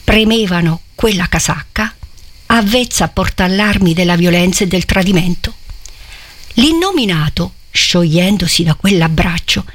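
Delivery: measured reading voice for a novel; story narration. A narrator's reading. Reader bringing the Innominato's conversion to life, measured narration. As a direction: read the classic passage aloud with care. Reads Promessi Sposi aloud.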